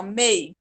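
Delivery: "mei" as one gliding syllable, E sliding into I; quick, all together. Shown as a demonstration. Teacher shows the diphthong, "mei" said all together. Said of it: "fala bem rapidinho".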